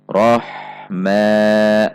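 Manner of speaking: "Roh" breathing straight on into a long "ma"; no pause. Shown as a demonstration. Teacher models ha joined to mim, unbroken. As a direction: join "Roh, ma" and hold the ma evenly. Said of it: "dengan ma tidak terjeda".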